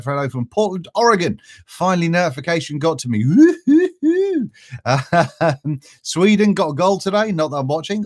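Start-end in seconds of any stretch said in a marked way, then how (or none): 3.2-4.5 high, drawn-out laughing woo-hoo; giddy little cheer that breaks into a laugh; excited whoop. Real, not acted. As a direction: whoop with delight at the news. Cheering as notification finally arrives.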